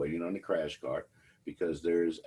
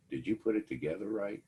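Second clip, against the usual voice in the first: imitating the nurse; 5 semitones higher than usual. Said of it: "that person looked at me and said".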